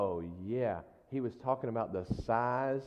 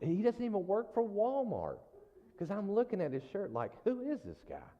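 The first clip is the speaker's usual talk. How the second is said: excited high retelling; 11 semitones higher than usual. Real, not acted. Excited retelling of Walmart stranger.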